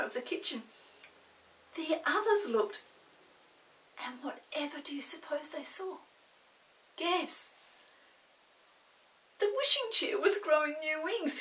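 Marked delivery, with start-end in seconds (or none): 4.0-7.5 teasing whisper. A narrator's reading. Narrator teasing listeners.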